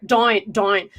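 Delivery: DOWN with a Northern Irish vowel, like "dine"; Northern Irish accent. Shown as a demonstration. Host teaching guest the vowel, Northern Irish accent. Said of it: "working on an Irish accent".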